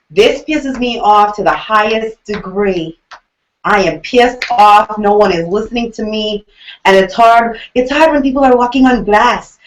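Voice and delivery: loud, indignant imitation; hammed-up outrage, emphatic and loud; mock angry rant. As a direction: vent like a fed-up contestant, hitting each word hard. Acted angry rant of a contestant.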